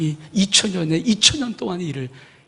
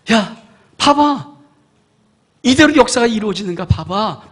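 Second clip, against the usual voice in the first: divine dare; 4 semitones higher, 7 dB louder than usual. Acted. God daring humans to watch.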